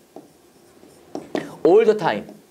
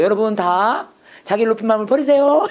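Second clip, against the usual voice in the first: mock gentle preaching; 3 semitones higher than usual. Shown as a demonstration. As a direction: pretend to coax the congregation tenderly. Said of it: "부드럽게 얘기하면".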